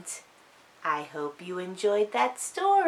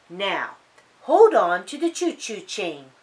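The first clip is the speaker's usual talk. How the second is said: quacking; 6 dB louder than usual. Acted. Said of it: "quacked Polly".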